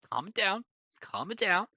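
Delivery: lightly acted shushing; mock soothing. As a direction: settle someone down softly. Captor tells captive to calm down.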